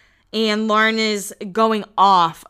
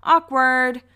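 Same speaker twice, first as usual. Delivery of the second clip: a quick loud "awkward" quip; casual awkward; 4 semitones higher, 5 dB louder than usual. Retold or imitated. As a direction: drop awkward like a punchline. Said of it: "we could just go".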